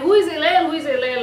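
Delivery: loud impatient call. Retold or imitated. Man calling for Hillel on Friday, loud impatient call. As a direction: summon him from the bath.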